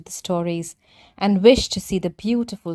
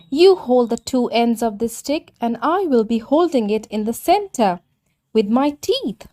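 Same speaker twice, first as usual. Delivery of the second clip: higher, eager little tortoise explaining his plan; 3 semitones higher than usual. Acted. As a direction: pitch up as the chatty tortoise.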